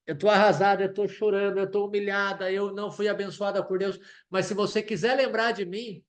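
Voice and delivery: súplica angustiada; anguished prayer. Acted. Preacher voices Ana's anguished prayer.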